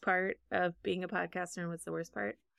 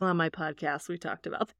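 smug podcaster impression; 4 semitones lower than usual. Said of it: "sounding like the biggest douche canoe".

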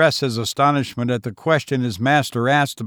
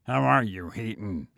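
cordial; 4 semitones lower, 7 dB quieter than usual. A narrator's reading. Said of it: "said the lawyer cordially".

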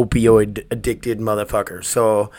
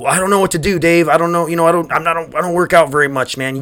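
raised, hesitant mock-listener whine; whiny excuse voice; 5 semitones higher than usual. Listener making excuses to Dave, in a higher whiny mock voice. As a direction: play the guy making excuses not to work out.

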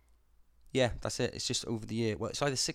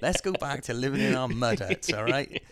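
angry Celt shout; 5 semitones higher, 11 dB louder than usual. Retold or imitated. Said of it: "they're going".

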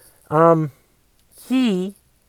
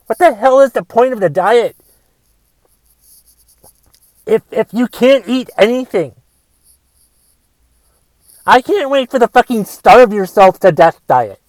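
angry rant. Acted. Comic ranting at a keto friend, exasperated. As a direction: fume at the bunless burger friend.

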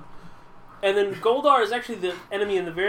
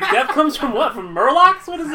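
mocking laugh; 8 semitones higher, 8 dB louder than usual. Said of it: "It's like".

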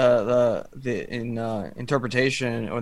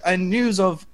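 put-on a clumsy, half-hearted Australian accent; Australian accent done badly on purpose; 6 semitones higher than usual. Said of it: "I'll do my worst Australian accent".

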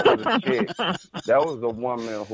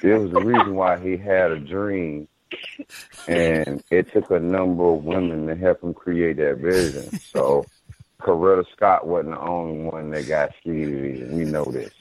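lightly voiced preacher, low and measured; preacher style; 5 semitones lower than usual. Co-host giving a requested church shout-out, mild preacher style. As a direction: deliver a mock church shout-out, low-pitched. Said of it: "preacher style".

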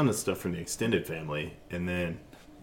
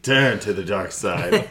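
slow villain voice; 4 dB louder, slower than usual. Acted. Voicing the Emperor, Star Wars.

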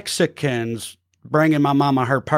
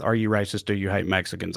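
low quiet quote; 5 semitones lower, 6 dB quieter, faster than usual. Retold or imitated. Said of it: "an odd choice to open with".

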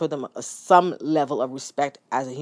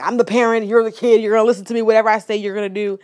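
raised, firm and louder, every clause hammered; strict parent laying down the law; 5 semitones higher, 6 dB louder, faster than usual. Retold or imitated. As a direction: play the mom who demands obedience. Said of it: "you know, I was like".

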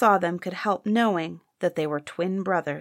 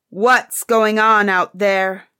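slow, much louder angry demand; 6 dB louder, slower than usual. Acted. Emperor disturbed at dinner by uproar, angry call. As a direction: bark it across the hall. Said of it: "asked the emperor angrily".

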